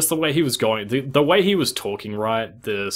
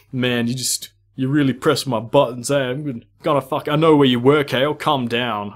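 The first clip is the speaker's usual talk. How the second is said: a louder, hammed-up threatening customer; retold angry threat; 3 semitones higher, 5 dB louder than usual. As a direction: mimic the angry caller pushing back. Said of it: "he kept getting angry".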